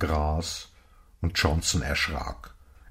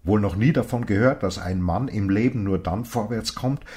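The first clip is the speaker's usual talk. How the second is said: raised, louder rebuke, a touch of real anger; indignant old man; 4 semitones higher, 4 dB louder than usual. Acted. Old man scolds Johnson for calling him old, heated. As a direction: scold him like a stranger who was insulted.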